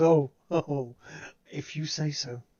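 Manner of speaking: speaking while laughing slightly maniacally. Voicing a character who finds a threat hilarious: slightly maniacal laughing. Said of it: "starts laughing in a slightly maniacal manner".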